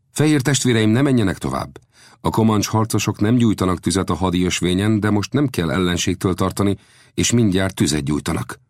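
a light touch of a native guide addressing guests; lightly voiced guide. Guide advising his white brothers, lightly voiced.

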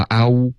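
"啊呜" with lips closing into oo; wrong lip rounding. Shown as a demonstration. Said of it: "不要发啊呜". (“啊呜”末尾圆唇)

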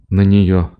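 usual speaking voice

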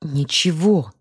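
whispered sob of a word; sobbing whisper. A narrator's reading. Lena to Larisa, a whispered sob before running off. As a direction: choke it out in a tearful whisper. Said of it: "всхлипнула Лена".

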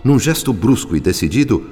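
ordinary delivery

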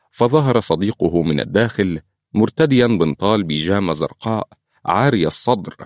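ordinary talk

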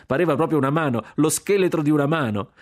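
high, loud, hilarious exclamations; gleeful shouting. A narrator's reading. Jack marvelling at the fake hand, shouting gleefully. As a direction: shout it in sheer delight at the trick. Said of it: "gridava Jack correndo".

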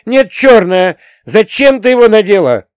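put-on high, loud childish accusation; shrill out the protest like an upset boy; ringing child's outburst; unnaturally ringing boy. A narrator's reading. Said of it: "Голос мальчика был неестественно звонкий".

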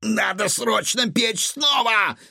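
high, drawn-out panicked cry; distraught. A narrator's reading. Cook must bake again urgently, distraught. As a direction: wail it out urgently, stretching the words. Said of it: "схватился за голову повар".

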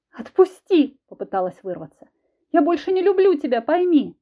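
high, loud desperate pleading; desperate cry. Acted. Wife cries out to her husband as she struggles, high and loud. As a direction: shout to break free.

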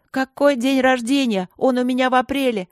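furious denial to her former friend; exasperated shout. Acted. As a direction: hammer each word in anger. Angry quarrel continues.

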